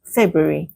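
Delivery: February said as "Feb-u-ary", first R dropped; careful model February, R after the B left out; February without first R. Shown as a demonstration. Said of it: "do not pronounce the R after the B".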